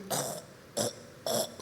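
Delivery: soft voiceless repeated clucking sound; imitated noise. Father imitates the sound heard by the baby, hushed.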